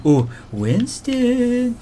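drawn out then yelled high; mocking call-out. Real, not acted. Gamer calls out Winston, mocking then shouting. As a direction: taunt the gorilla by name. Calling out to enemy.

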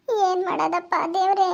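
understated weepy sigh to God; tearful lament. Acted. Abandoned wife alone calls on God, tearful lament. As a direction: plead helplessly, a touch tearful. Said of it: "ಯಾಕ್ ಹಿಂಗ್ ಅಳ್ತೈತಿ".

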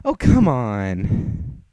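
loud taunt to make Lucy mad; goading taunt. Acted. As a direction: bellow to provoke her. Wretched Egg goading Lucy to fight.

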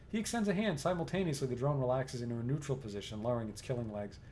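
steady, even storyteller read; game narration. A narrator's reading. Narrator sets the scene for the player, even storytelling. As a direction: read the room description like a narrator.

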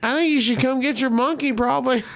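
tentatively ask, hiding mild alarm; uneasy polite request. Retold or imitated. Guest asking owner to get his monkey, uneasily polite.

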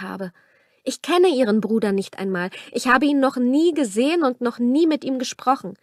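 a hint of a desperate young woman; pleading young woman. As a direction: plead your case to him. Camilla swears her innocence.

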